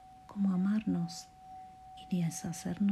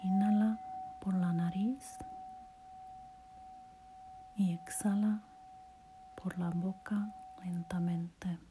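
guided meditation; 3 semitones higher than usual. Acted. Podcaster guiding a listener through relaxation and self-love affirmations, guided meditation voice. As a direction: lead the listener gently through each phrase, unhurried.

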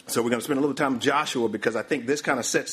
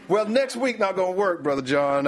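pitched-up, hedging guest backing out; mock reluctant excuse; 7 semitones higher than usual. Guest backing out of host's invitation, playfully reluctant. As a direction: beg off with a lightly acted excuse.

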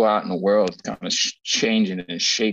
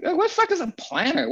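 incredulous; faster than usual. Retold or imitated. Retold disbelief, mock outrage.

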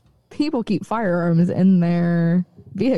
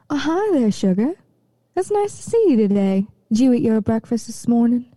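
creepy sweet voice; 3 semitones higher than usual. Shown as a demonstration. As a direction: coo it like an overly sweet stranger. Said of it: "listen to these different kinds of voices".

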